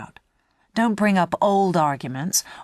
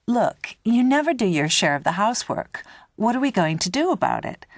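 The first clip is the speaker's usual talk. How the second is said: mildly accusing, higher-pitched complaint; confrontational; 5 semitones higher than usual. Pretend. Student confronts flatmate over housework, mildly accusing. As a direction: raise the pitch in exasperated reproach, lightly acted.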